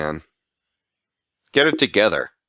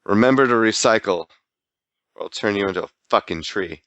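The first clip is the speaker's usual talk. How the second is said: vengeful Captain Planet; faster than usual. Retold or imitated. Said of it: "he was rather vengeful".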